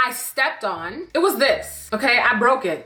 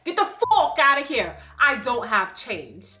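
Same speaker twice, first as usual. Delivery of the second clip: exaggerated Canadian vowels, slowing right down at the end; deliberate Canadian impression; imitated Canadian accent; slower than usual. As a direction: mimic his strong Canadian accent, dropping to a slow finish. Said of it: "I can't replicate the way he sounded".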